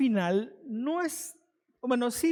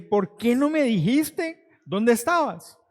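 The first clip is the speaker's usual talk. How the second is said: reclamo lento; 2 semitones higher, 4 dB louder, slower than usual. Retold or imitated. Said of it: "porque dije".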